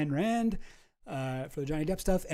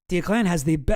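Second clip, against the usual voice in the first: put-on French accent; 5 dB louder than usual. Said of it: "why am I giving him a French accent?".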